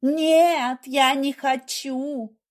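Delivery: high, loud desperate cry; wife begging not to go to hospital; panicked plea. A narrator's reading. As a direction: beg him, terrified.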